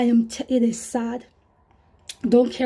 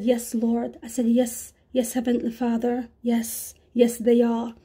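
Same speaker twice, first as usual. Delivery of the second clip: humble; 3 dB quieter than usual. Retold or imitated. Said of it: "I was so humble".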